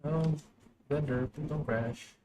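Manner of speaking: high, slow, soft plea; pleading. Real, not acted. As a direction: plead slowly in a high, small voice. Pleading with crashing software.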